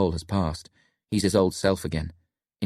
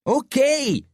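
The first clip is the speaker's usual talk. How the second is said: high, grudging grouch; grouchy; 4 dB louder than usual. A narrator's reading. Locke gives in to his friend, grouchy. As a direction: give in grumpily, pitched up. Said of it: "he grouches".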